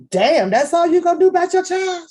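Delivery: high, loud indignant cry; mock outrage. Host scolding Catfish over her child, loud mock outrage. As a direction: blast her for doing so little.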